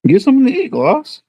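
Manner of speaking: high call across the room to Gloss. Real, not acted. Calling to Gloss across the house to come eat. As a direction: call out to her from another room.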